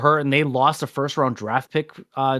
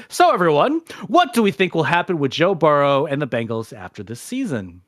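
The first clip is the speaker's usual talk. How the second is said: sports news anchor read. Acted. Reads a news segment.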